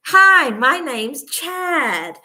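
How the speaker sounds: imitating a drawn-out TV advert intro; advert guy. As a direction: ham up the cheesy ad presenter. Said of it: "where this guy goes".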